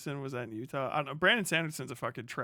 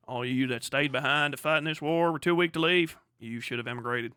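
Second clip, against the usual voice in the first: stern mock German voice; 3 dB louder than usual. German-style mock speech.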